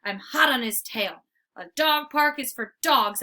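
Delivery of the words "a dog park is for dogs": barking call. Acted. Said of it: "I bark after him".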